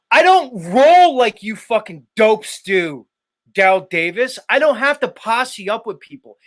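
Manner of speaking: angry rant. Real, not acted. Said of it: "you got me screaming at my audience".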